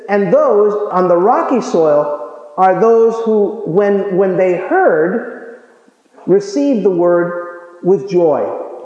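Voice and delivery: scripture reading. Acted. Reads scripture slowly.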